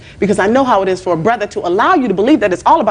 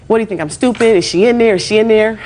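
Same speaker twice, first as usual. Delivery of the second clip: mild mock yell, slightly raised and higher; retold yelling; 4 semitones higher, 3 dB louder than usual. Witness tells judge what she heard outside, mild retold yelling. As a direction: imitate her angry demanding yell, only half full. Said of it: "her yelling".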